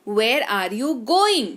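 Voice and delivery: very slow, clear teaching read; slow model sentence. Shown as a demonstration. Teacher modelling sentence slowly for students. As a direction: say Where are you going? word by word. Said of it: "teacher models English sentence".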